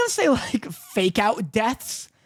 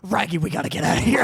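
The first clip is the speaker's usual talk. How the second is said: Scooby voice; 5 semitones lower, faster than usual. Acted. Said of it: "He's just like".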